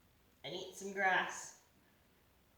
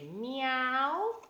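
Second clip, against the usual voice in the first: cat meow; 4 semitones higher than usual. Pretend. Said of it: "Do they say".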